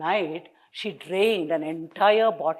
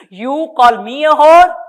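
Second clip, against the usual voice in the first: angry retort; 6 semitones higher, 12 dB louder than usual. A narrator's reading. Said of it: "started cursing him".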